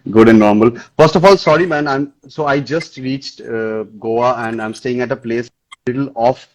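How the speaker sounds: muffled, like through a wall. Real, not acted. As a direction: voice dulled by a bad connection. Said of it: "your voice is, like, slightly muffled".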